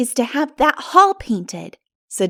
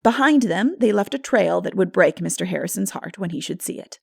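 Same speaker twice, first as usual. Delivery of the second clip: normal talking voice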